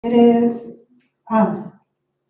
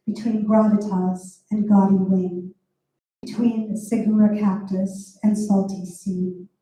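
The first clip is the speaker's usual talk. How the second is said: poem reading. Acted. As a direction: read it as a poem, savouring each image. Reads her poem Mind the Gap.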